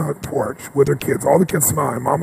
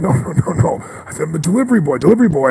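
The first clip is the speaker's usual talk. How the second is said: flustered protest; 4 semitones higher, faster than usual. Retold or imitated. Acting out his flustered protest to her.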